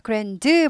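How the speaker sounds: "grand" with the d held back; d in "grand" barely there; unreleased d in grand. Shown as a demonstration. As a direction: say "grand" without popping the final d. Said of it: "발음 튀지 않아요".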